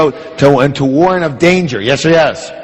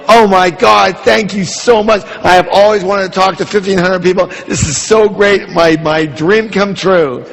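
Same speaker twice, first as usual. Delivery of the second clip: high, gushing, starstruck thrill; gushing excitement; 3 semitones higher than usual. Retold or imitated. Eager speaker gushing to the crowd, mock thrilled. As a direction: gush like a thrilled guest speaker.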